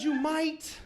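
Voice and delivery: sly reply. Retold or imitated. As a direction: tease the toddler with a sly hint. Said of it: "And I said".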